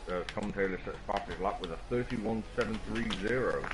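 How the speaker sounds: talking around a cigarette in mouth. Real, not acted. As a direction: cigarette held between lips while speaking. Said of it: "I've got a cigarette in my mouth".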